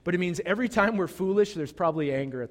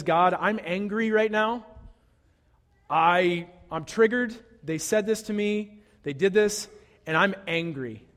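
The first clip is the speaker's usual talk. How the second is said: voiced angry prayer; 3 semitones higher, 3 dB louder than usual. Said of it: "an internal change of heart that says".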